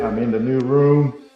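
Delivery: echoey new room; big hall echo. Real, not acted. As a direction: voice bouncing off bare walls. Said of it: "I'm sorry I'm asking a little bit".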